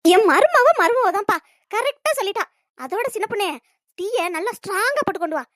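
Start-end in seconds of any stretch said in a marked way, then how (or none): 0.0-2.4 slow, loud, syrupy praise; butter her up, drawn out; fake sweetness. Mother-in-law sweet-talking the daughter-in-law to get tea, slow.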